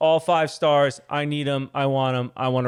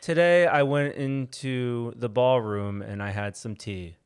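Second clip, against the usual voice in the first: English accent; much slower than usual. Shown as a demonstration. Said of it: "Give me a sentence".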